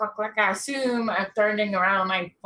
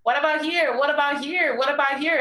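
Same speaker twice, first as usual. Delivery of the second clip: calling out; 5 semitones higher than usual. Acted. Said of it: "I'm just like".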